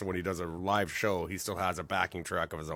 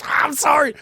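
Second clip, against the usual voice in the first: flustered apology; 10 dB louder than usual. Retold or imitated.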